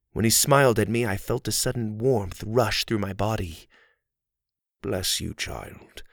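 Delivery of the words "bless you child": soft whisper sinking into breath; hushed, voiceless by the final word. A narrator's reading. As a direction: whisper it gently, letting the last word fade. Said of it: "he whispered".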